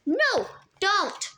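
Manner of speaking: high, urgent cry; screamed. A narrator's reading. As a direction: stop him in panic. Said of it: "Annabeth screamed".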